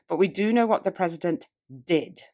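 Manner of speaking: "did" set apart at the end for emphasis; stress on did. Shown as a demonstration. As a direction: make "did" stand out as the key word. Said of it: "The words thought and did immediately catch".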